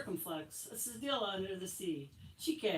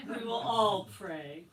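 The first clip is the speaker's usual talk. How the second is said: mock prayer; 7 dB louder, slower than usual. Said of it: "in mock prayer".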